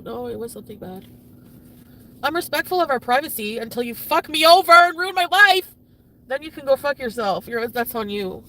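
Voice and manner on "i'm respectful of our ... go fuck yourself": loud, raised furious outburst; angry self-defence. Real, not acted. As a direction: build into an indignant shout. Angry justification for exposing partner.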